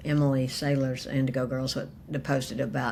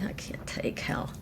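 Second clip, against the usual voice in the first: whispered. Real, not acted. Overwhelmed by love for dogs.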